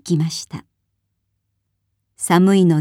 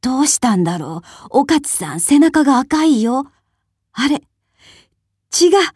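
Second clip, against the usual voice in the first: from puzzled to a much higher horrified cry; rising horror; 6 semitones higher than usual. A narrator's reading. Old woman finds blood on the baby, puzzled to horrified cry. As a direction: build from worry to a scream at the blood.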